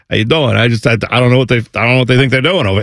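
fast New Jersey-style New York patter; put-on New York accent. Host back from visiting relatives, quick New York accent. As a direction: rattle it off like a New Yorker. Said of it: "if I go to New York".

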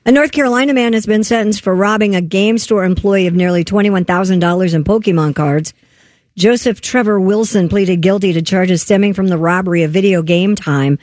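radio news story delivery; news read. Real, not acted. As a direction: read it out like a newscaster.

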